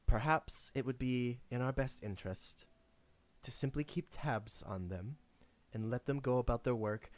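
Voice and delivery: lightly voiced measured counsellor, low and soft; understated in-character diplomacy, softly spoken; composed Ravina. Game master plays Ravina.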